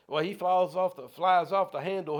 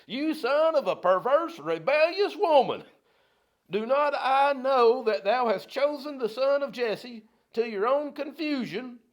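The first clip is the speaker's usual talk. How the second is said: higher, louder preacher's roar of the king's insult, slowing on the last lines; furious Saul; 8 semitones higher, 5 dB louder than usual. Retold or imitated. Preacher rereads Saul cursing Jonathan, a full angry roar. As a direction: bellow it like an enraged king at his son. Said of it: "that's kinda what Saul's saying here".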